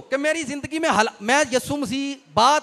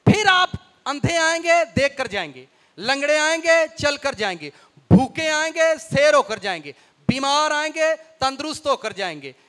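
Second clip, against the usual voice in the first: each "आएंगे" line rising, each "जाएंगे" line falling; rhythmic preaching contrasts. Acted. Preacher promising healing to believers, in rising-falling cadence. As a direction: rise on the need, fall on the healing.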